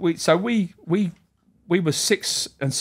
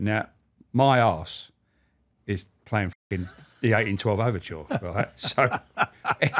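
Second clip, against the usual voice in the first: usual speaking voice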